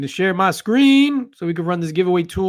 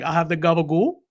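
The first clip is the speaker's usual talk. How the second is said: mock Italian accent. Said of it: "Andy was like".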